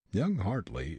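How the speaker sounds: ordinary delivery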